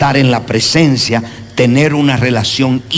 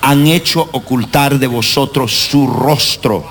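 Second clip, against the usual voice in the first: scripture read aloud together. Real, not acted. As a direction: read the verse aloud in unison, deliberately. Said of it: "vamos a leerlo, uno, dos, tres, go".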